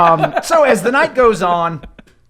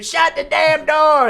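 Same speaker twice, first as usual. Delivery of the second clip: high, slow shout to shut the door; yelling crowd; 9 semitones higher, slower than usual. Pretend. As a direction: bellow it at the open door. Tavern crowd yelling at open door.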